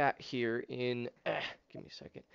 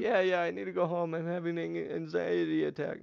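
high-pitched, whiny mock crying voice; imitated tearful panic; 5 semitones higher than usual. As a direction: mimic her weepy pleading to go home. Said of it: "she's just crying".

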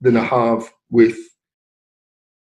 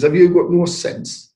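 imitating an exasperated mother, higher pitched; retold scolding; 7 semitones higher, slower than usual. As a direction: scold your son, drawn out and raised in pitch. Mother scolding son, repeated.

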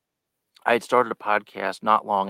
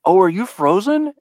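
high, louder startled check; surprised question; 11 semitones higher, 11 dB louder than usual. Retold or imitated. Host asking his frozen guest, imitating his surprised question. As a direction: ask it as if jolted by the silence. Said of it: "I was like".

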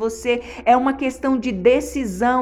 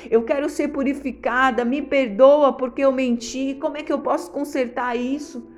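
broken, pleading confession with stumbles and repeats; earnest repentant prayer. Shown as a demonstration. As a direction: confess a lie to God, earnestly.

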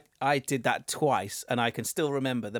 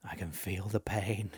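pained; 5 semitones lower, 9 dB quieter than usual. Shown as a demonstration. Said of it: "I'm just thinking".

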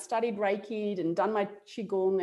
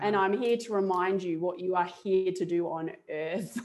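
masculine spirit guide. Retold or imitated. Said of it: "more of a masculine tone".

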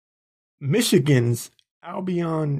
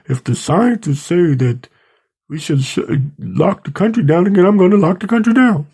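mimicking Biden, rising to a shout; 3 semitones higher than usual. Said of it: "He said".

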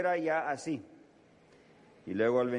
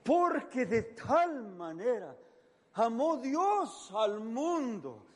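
slow, higher, each word drawn out; slow fervent verse; 10 semitones higher, slower than usual. Shown as a demonstration. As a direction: preach it slowly and high. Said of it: "repite el versículo, lento". (versículo lento y elevado)

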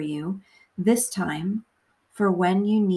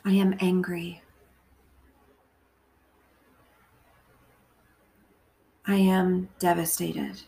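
measured meditation voice, phrase by phrase; guided prayer. Acted. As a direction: pray gently and deliberately, leaving long pauses to repeat.

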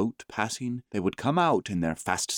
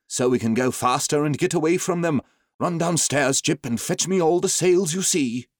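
urgent order; 7 semitones higher, 4 dB louder than usual. A narrator's reading. Doctor orders sails to escape.

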